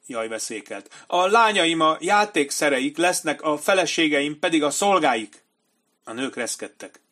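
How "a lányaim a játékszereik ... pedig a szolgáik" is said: high, loud, panicky coward's voice; frightened commander. A narrator's reading. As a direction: plead like a terrified coward. Benny Singh's voiced lines.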